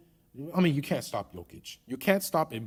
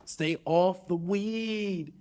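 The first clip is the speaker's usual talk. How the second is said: slow pundit scolding; 4 semitones higher, much slower than usual. Retold or imitated. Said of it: "my terrible Stephen A. Smith impression".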